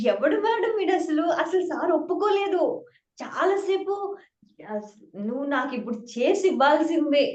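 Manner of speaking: imitating the teacher's stern fury; a hammed-up furious teacher demanding the fix; retold angry scolding. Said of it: "చాలా serious ఉన్నారు".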